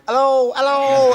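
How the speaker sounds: high, calling out hello; echoing hello. Retold or imitated. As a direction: call out lost in space. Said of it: "Steve McManaman going".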